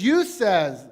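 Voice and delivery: slipped into a Southern drawl on "You says", the "says" said as "sez"; "You says" with a Southern twang, "says" rhymes with "fez"; an accidental Southern "You says". Real, not acted. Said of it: "that's a southern drawl right there".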